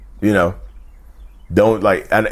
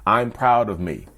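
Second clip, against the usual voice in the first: self-praise; slower than usual. Shown as a demonstration. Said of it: "I say it out loud".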